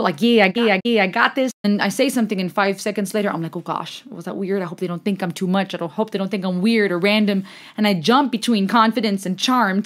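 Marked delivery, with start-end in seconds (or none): 0.2-1.5 mildly cocky self-assurance; confident and cool. Acted. Acting out own confident moments, confident and cool. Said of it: "I feel confident and cool". 3.6-7.4 overthinking. Acted. Acting out own second thoughts, overthinking. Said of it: "overthinking, feeling like I don't fit in".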